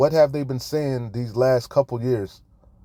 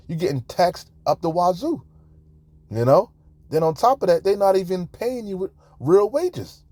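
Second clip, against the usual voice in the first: rising outrage; 5 semitones higher than usual. Real, not acted. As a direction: pitch climbing higher as the anger builds. Escalating rant about taxes and usury.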